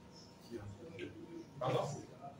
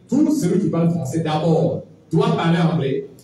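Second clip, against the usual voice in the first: every word firm, a bit louder, each stress on tout and anglais; emphatic restatement; 3 dB louder than usual. Shown as a demonstration. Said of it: "Je dis bien".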